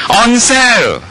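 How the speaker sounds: hammed-up eager shopper; playing the bargain hunter to the congregation; mock bargain excitement. Acting out a bargain rush.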